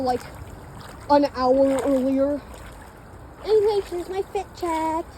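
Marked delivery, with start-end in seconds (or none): 3.4-5.0 higher, polished vlogger intro voice; put-on influencer voice. Vlogger mocking her own fit-check intro, put-on influencer voice. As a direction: present the outfit like a styled influencer. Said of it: "I don't know why I'm talking like that".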